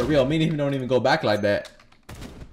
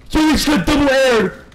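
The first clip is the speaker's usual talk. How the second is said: hype yell; 8 semitones higher, 6 dB louder than usual. Real, not acted. Hype repeat.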